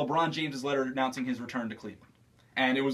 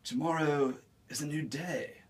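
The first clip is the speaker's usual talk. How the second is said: Keanu Reeves impression; 5 dB quieter than usual. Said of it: "Keanu Reeves".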